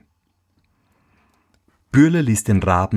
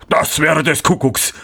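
higher, put-on miller voice, amazed; astonished exclamation; 6 semitones higher than usual. A narrator's reading. Miller hears of hidden cake, exclaiming in amazement. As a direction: cry out in disbelief. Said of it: "rief der Müller".

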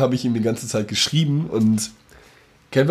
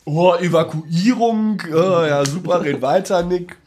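sarkastisch; 6 semitones higher, slower than usual. Real, not acted. Sarkastisch nach ignoriertem Gag.

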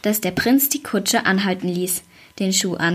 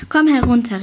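a longing call, louder, down into the tree; 3 semitones higher, 5 dB louder than usual. Acted. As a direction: call her down, yearning. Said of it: "rief der Prinz sehnsüchtig". (sehnsüchtiger Ruf, lauter)

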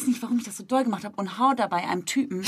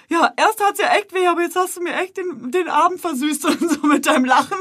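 much higher, amused voice; laughing stranger; 9 semitones higher than usual. Retold or imitated. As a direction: say it still laughing along. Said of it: "mitgelacht und meinte". (lachend nachgemachter Fremder)

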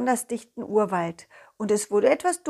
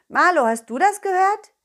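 cartoon dog voice; 6 semitones higher, 4 dB louder than usual. Dog voice calling beetle.

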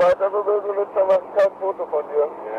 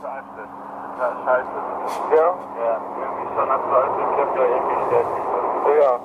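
put-on old cassette recording. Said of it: "Wir hören jetzt den zweiten Teil".

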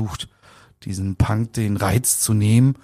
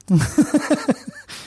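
laughing. Real, not acted. Laughs at own age slip.

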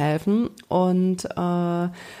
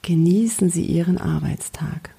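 soothing spa whisper; 3 semitones lower than usual. Acted. Whispered line inside the visualization. (beruhigendes Wellness-Flüstern)

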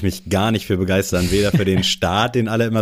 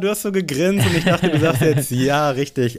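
high, laughing, fast; laughing disbelief; 8 semitones higher than usual. Real, not acted. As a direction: squeal it out through laughter. Reacting to wrong guess.

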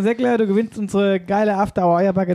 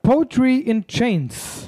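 slow announcement; 4 semitones higher, much slower than usual. Acted. Gewinner dramatisch verkündet.

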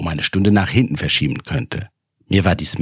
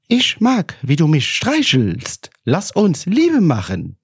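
very high, slow breathy doll voice; slow, cooing sex-doll voice; bad porn Alexa voice; 11 semitones higher, slower than usual. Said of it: "klang ihre Stimme wie eine schlechte Pornoversion von Alexa". (hohe, langsame Sexpuppen-Stimme)

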